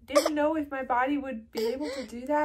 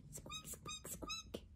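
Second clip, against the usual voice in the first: squeaking bunny; 20 dB quieter, much slower than usual. Acted. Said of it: "Can you squeak like a bunny?".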